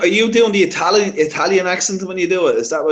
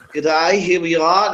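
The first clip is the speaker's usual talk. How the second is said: mock Australian; slower than usual. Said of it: "Australian news".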